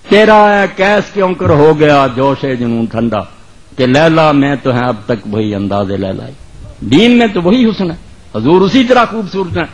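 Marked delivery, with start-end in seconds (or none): 0.1-6.2 poetry recitation. Acted. Preacher reciting Urdu verse to the congregation, measured declamation. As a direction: recite it line by line, letting vowels stretch.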